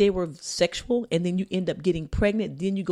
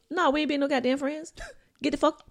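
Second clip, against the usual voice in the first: heated pretend rant; angry; 6 semitones higher than usual. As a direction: tell him off, fired up. Voicing the angry friend.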